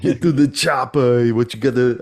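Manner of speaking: barking an order to run for the chopper, lightly voiced; movie action hero. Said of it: "Just say".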